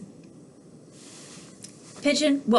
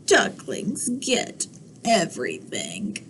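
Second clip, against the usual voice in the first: soft whisper to the listeners; hushed storyteller aside; 5 dB quieter than usual. Acted. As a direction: lean in and whisper a secret comment.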